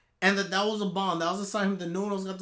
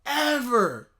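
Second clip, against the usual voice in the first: quoting her; 5 dB louder, slower than usual. Retold or imitated. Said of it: "and I quote".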